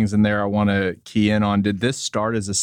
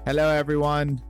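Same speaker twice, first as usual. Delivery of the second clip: mock announcer voice; 7 semitones higher than usual. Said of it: "Just kidding".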